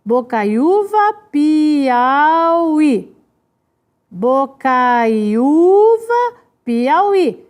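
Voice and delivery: "bocaiúva" and "Piauí" drawn out to show the stress; stressed-syllable comparison. Shown as a demonstration. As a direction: set "bocaiúva" slowly against "Piauí".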